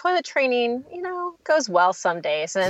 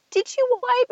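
exasperated mom. Retold or imitated. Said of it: "I wanna be like".

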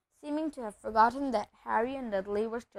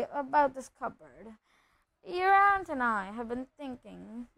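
forced friendliness; 3 semitones higher than usual. Acted. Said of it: "forced his face into a smile".

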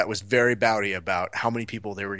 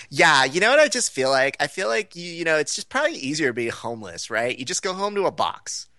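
higher-pitched chatty waitress, imitated; overheard waitress; 4 semitones higher than usual. Waitress musing aloud at the bar, higher and chatty. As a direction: imitate a waitress airing a silly idea. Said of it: "the first thing I hear my waitress say".

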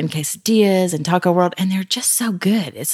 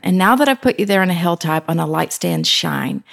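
scripture reading. Acted. Reads scripture verse aloud.

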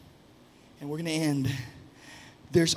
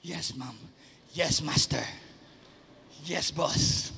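a hint of a yes-man, soft and low; lightly voiced obedient husband; meek husband; 5 semitones lower, 4 dB quieter than usual. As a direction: answer like a dutiful husband. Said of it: "learn that line".

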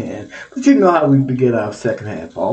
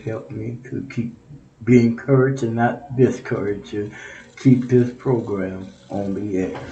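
lower-pitched, measured public prayer; 3 semitones lower than usual. Real, not acted. Radio host praying for listeners and the program, prayerful. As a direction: pray earnestly for the listeners.

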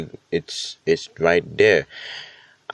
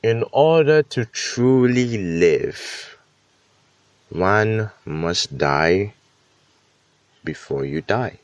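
solemn quote; slower than usual. Retold or imitated. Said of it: "the quote says".

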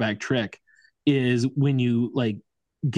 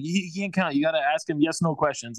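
mock coach; 4 semitones higher, 3 dB quieter than usual.

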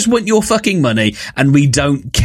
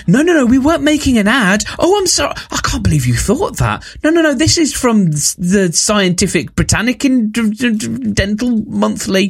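high, flustered mock protest, much higher pitched; flustered advertiser; 8 semitones higher than usual. Mocking the ad makers, a high flustered fake apology. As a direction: pretend you're an advert maker caught out, stammering in fake surprise.

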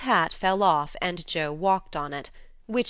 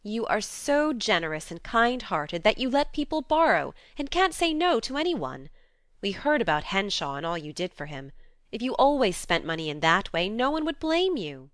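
warmly; 3 semitones higher than usual. Acted. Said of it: "said Joe warmly".

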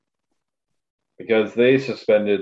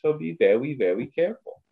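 higher-pitched mock Asian accent, w for r; fake Asian accent; 7 semitones higher than usual. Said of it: "said it with the fake Asian accent".

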